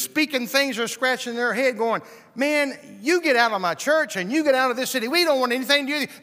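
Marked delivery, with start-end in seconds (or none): 2.3-6.2 loud, fast, angry eviction; fast hostile crowd yelling get out; angry townsfolk. Acted. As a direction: shout him out of town, quickly. Townsfolk throwing him out.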